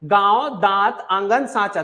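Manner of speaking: गांव, दांत, आंगन, सांचा each with a nasal vowel; nasal vowel examples. Shown as a demonstration. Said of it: "जब आप अनुनासिक में".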